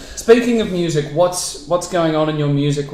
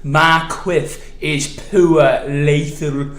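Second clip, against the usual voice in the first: slow, hammed-up Geordie drawl; a deliberately shit Newcastle accent, slow; bad Newcastle accent; much slower than usual. Mate doing a shit Newcastle accent for his friend. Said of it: "I'm gonna try a shit Newcastle accent here".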